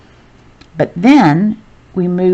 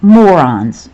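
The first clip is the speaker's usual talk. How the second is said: Morons said louder, as an exclamation; exclaimed Morons, louder; 6 dB louder than usual. Shown as a demonstration. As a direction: give "Morons" an exclamation-point punch. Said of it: "he says it with an exclamation point".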